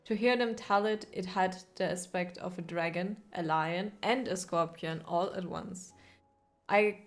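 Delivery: measured storyteller narration of a travel tale; lore reading. Acted. Streamer reads the game's lore entry aloud, storyteller narration. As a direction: read it like an old chronicle, steady and grave.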